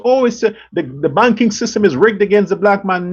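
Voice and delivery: mild mock wail, the world's sob story; mock whining complaint. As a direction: parody the complainers lightly, pitch barely up. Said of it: "And the world cries".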